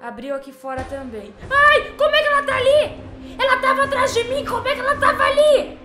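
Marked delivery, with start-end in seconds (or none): 1.5-5.8 high panicked laughing shriek; shrieking scared laugh; scared horror game streamer. Real, not acted. Horror game, nun appears suddenly.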